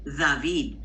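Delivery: tongue between the teeth on David; Spanish David. Shown as a demonstration. Teacher repeating the Spanish David. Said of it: "When I say David".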